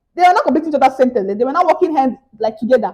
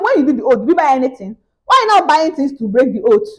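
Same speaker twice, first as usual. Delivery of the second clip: raised, louder scolding at the scammer; mock angry scold; 2 semitones higher, 4 dB louder than usual. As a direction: demand answers, raising the voice. Telling off the scammer angrily.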